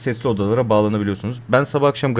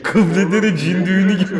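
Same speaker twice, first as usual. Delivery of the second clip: laughing; 8 semitones higher than usual. Real, not acted. Laughing at feet.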